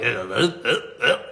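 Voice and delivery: short, halting stubborn grunts; grunts of protest. Retold or imitated. Traveler balking at being moved to Toronto, protesting grunts. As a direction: grunt in retold protest, word by word. Acting out his stubborn reluctance.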